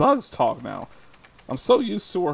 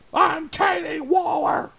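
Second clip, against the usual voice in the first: high, drawn-out mock Katie yell; mock shout; 13 semitones higher, slower than usual. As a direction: holler the name like a challenge. Mock bully act as Katie.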